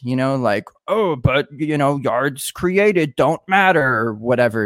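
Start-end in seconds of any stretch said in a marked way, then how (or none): 0.9-3.8 slow, drawn-out sarcastic quote; mock sarcasm. Host mimics a sarcastic Twitter meme to his guest, mockingly sarcastic. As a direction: draw it out in a put-on sarcastic voice. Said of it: "like you're being sarcastic".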